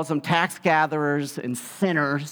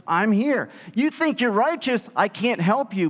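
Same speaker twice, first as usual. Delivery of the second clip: voicing Jesus; 7 semitones higher than usual. Jesus answering the religious leaders, raised emphatic voice. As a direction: declare it boldly as Jesus. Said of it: "And Jesus is like".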